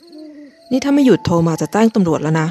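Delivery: a slow, mild mock shout; shouting into phone. Narrator warning the caller about the police, mock shout. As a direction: warn him slowly, not truly yelling. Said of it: "ผมตะโกนใส่หูฟัง".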